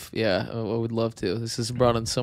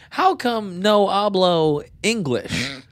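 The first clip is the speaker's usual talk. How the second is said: high, slow mock Spanish accent, rising at the end; hammed-up broken English with a Spanish accent; 8 semitones higher, 4 dB louder, much slower than usual.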